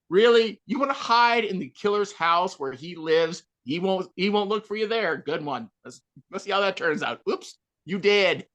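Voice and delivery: mildly heckling the screen, sarcastic; mock yelling. Viewer heckling a horror-movie victim's bad hiding place, sarcastic mock yell. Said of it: "so I can yell, I can scream at him".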